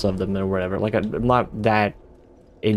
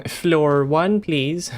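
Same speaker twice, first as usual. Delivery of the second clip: high laughing mock politeness; playful request; 6 semitones higher, much slower than usual. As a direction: ask sweetly, laughing.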